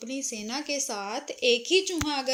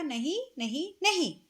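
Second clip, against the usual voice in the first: flat refusal; 3 semitones higher than usual. Acted. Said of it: "दर्जी ने साफ मना कर दिया".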